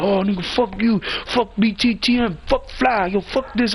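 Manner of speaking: imitated rival taunts. Retold rivals cursing him.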